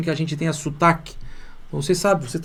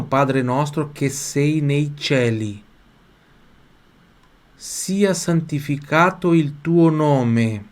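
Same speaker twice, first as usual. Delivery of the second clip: slow, evenly spaced Italian phrases; drawn-out teacher's model reading; model for repeating; much slower than usual. Shown as a demonstration. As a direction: recite slowly so learners can repeat. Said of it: "você vai repetir em voz alta".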